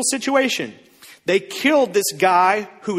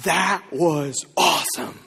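excited prayer; 4 semitones higher than usual. Retold or imitated. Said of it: "They said".

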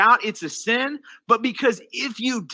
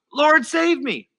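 calling out; 5 semitones higher, slower than usual. Retold or imitated. Peter calls out to Jesus as he sinks, retold cry. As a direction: call out, quoting a sinking man. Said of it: "Peter calls out".

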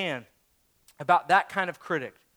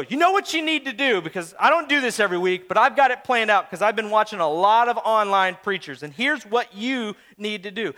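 mock know-it-all advice; presumptuous critic. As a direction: imitate a pushy critic. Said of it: "come to me and go".

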